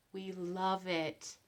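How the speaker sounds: drawn-out soft relish; slow and soft. Real, not acted. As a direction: let it sink in slowly and softly. Repeated as slow emphasis.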